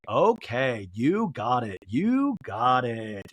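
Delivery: low, drawn-out encouragement; supportive. Retold or imitated. Friend encouraging her through deep breaths, mock supportive. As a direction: imitate a coach stretching the words. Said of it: "very supportive of Lisa".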